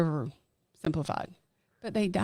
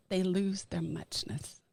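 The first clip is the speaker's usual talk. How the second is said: slow, softer landing on the refrain; slow emphasis; 5 dB quieter, slower than usual. Shown as a demonstration. Podcaster repeats her point, slow and softer. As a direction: let it sink in slowly. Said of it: "repeated refrain".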